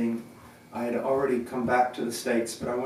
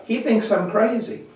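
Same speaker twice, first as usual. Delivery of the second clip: high, raised public announcement; addressing a crowd; 8 semitones higher, 4 dB louder than usual. Retold or imitated. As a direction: playfully announce it to everyone. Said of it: "said to the whole crowd".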